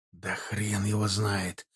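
slow, low, hushed reply; soft and low, hardly voiced; barely audible reply. A narrator's reading. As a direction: answer slowly under your breath. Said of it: "ответил еле слышно Тимофей".

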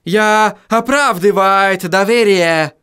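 put-on slow, defiant German-accented vow. A narrator's reading. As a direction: declare it resolutely, slow. Resolute declaration.

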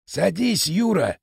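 "Садись" lifted with a rising, upbeat tune; chipper. Acted. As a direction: sound breezy and welcoming, "Садись" rising. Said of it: "Лысый держался бодрячком".

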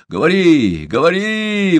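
loud, rising urging; exclaiming. A narrator's reading. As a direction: urge him on loudly. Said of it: "воскликнул Чомбока".

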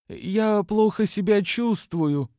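high, slow, strained croak faking illness; faked choking. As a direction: put on a sick wheeze, dragged out. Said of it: "прокряхтела Аринда, имитируя приступ удушья".

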